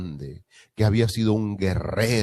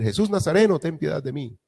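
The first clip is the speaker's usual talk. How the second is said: imagined plea; 8 semitones higher than usual. Retold or imitated. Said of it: "Y él no empezó a decir".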